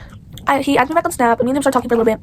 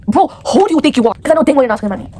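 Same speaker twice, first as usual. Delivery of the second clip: louder indignant call-out; annoyed retort; 4 dB louder than usual. Real, not acted. Girl addressing the boy through the camera: louder indignant call-out. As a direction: tell him off, fed up.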